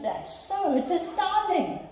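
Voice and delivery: delighted elephant, lightly voiced; amazed elephant.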